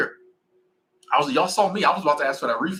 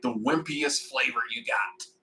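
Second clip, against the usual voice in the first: slow, drawn-out dad-joke delivery, a touch softer; dad line; 4 dB quieter, slower than usual. Retold or imitated. Ordering wings, he slowly hams up his corny dad line. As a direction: savor each word like a proud corny dad. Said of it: "this is my dad line".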